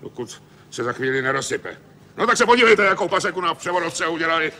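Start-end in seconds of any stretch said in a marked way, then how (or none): 2.2-4.5 indignant. Acted. Angry foreman shows damaged gearbox.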